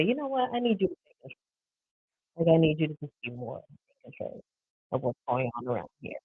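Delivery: softly voiced hypothetical plea; quiet, play-acted appeal to a partner; pretend gentle request. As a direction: ask him softly, as an example. Wife voices a request to husband.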